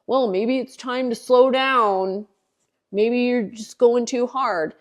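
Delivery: slow, put-on advice-giver voice; mock concerned advice. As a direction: parody well-meaning commenters, drawing it out. Voicing critics' comments she resents.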